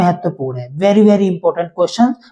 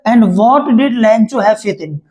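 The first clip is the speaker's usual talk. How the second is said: dictating slowly; much slower than usual. Shown as a demonstration. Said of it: "teacher reads question slowly".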